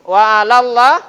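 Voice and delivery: alallah with thick heavy lam, loud; tafkhim lam. Shown as a demonstration. Teacher demonstrating thick lam in Allah. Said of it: "Dibaca tafkhim, akhirnya tebal".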